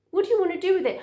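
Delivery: put-on high-pitched question to a little boy; mother asking child. Mother asking her little boy about a toy, high-pitched.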